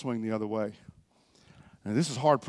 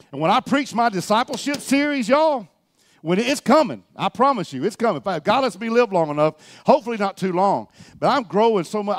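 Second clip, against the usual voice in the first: raised, higher-pitched pulpit voice; fervent preaching; 5 semitones higher, 5 dB louder than usual. Real, not acted. Preacher promising his church a discipleship series, fervent preaching. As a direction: promise it with conviction.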